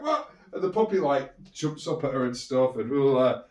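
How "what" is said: much higher astonished what; imitating auntie's startled what; shocked what. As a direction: gasp the word out in shock. Auntie sees puppy running.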